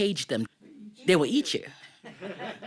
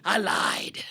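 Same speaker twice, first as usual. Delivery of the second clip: sly whisper; 3 semitones higher than usual. Acted. Tiger confesses to the Brahmin.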